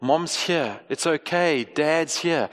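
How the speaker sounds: gentle parent at the bedside; soothing parent. Retold or imitated. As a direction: hush a frightened kid back to calm. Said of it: "what Kate and I most often say".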